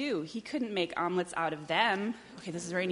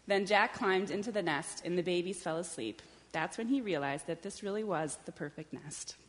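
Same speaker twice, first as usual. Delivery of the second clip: measured picture-book reading; story narration. A narrator's reading. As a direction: read it unhurriedly to young children. Reads a picture book aloud.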